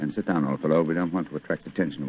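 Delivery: low and hushed, so as not to draw attention; quiet urging to a friend in a dark theatre box. Acted. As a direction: keep it down, the second act has begun. Theatre darkens, avoiding attention.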